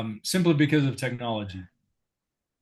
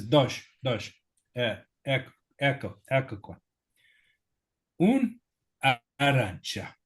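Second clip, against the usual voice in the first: imitating Luigi. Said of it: "he says".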